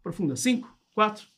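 calm, measured hypnosis countdown; slow hypnotist voice. Acted. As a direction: lull them under with each number. (voz lenta de hipnotizador)

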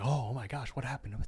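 gasping crowd. Retold or imitated. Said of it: "they gasp and go like".

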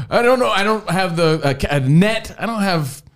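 high, helpless flustered voice; hammed-up helpless alarm; mock panic. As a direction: plead that you are unequipped for this.

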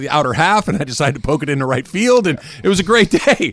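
lightly voiced ballplayer, quick start; mock player interview. Imitating a postgame player interview.

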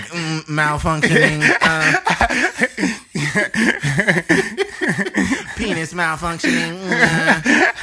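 high, slow nerd voice breaking into laughter. Retold or imitated. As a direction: whine it like a giggling nerd. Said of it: "He'd probably be like".

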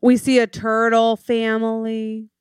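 high, cooing delight; mock wonder. Co-host spots animals while snorkeling, mock wonder. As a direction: coo it in lifted mock amazement. Acting wonder on underwater montage.

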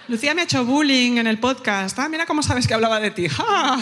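mock rival crying bullying. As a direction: play the hurt rival complaining. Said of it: "lo que va a hacer esta cabrona".

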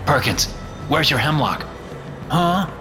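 worried questioning. Acted. Urgent questioning of Perkins.

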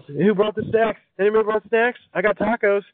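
high, peppy crayon character; party crayon. Acted. Crayon checking on snacks at the box party, high and peppy.

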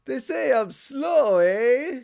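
slow, drawn-out Canadian eh; a lightly done Canadian kid; Canadian accent. Retold or imitated. Kid in Bart's class, in a mild Canadian accent. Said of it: "the Canadian kid".

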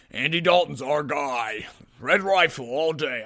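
lightly voiced coach, slowed a bit; a hint of a coach's confident drawl; mild mock coach voice; Nagy impression. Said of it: "for the sake of my impression".

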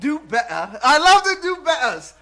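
loud, high, gleeful cheer; excited shout. Real, not acted. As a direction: shout it out like a fan. Cheering the catchphrase.

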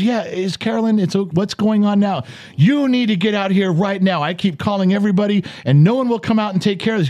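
screaming caller. Retold or imitated. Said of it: "and he's screaming".

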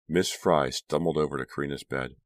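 ordinary delivery

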